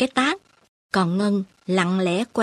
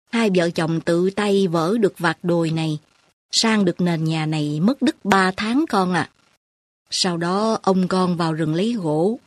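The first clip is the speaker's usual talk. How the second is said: old grandmother, lightly voiced. Grandmother tells her past.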